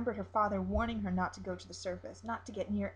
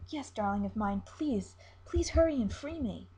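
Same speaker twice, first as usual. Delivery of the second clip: pleading siren; 4 dB louder than usual. Acted. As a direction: beg to be let go, pitched well up. Siren voiced by narrator.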